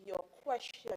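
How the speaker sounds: very slow and stern. Real, not acted. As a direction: spell it out word by word. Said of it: "along the lines of your substantial question".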